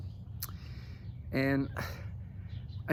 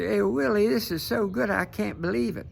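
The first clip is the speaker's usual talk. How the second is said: higher, louder mock sweet-talk; imagined flirty quote; 5 semitones higher, 5 dB louder than usual. Imagining Kamala Harris sweet-talking Willie Brown, mock-coy and higher. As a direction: coo it like a put-on act. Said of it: "performing her act for Willie Brown".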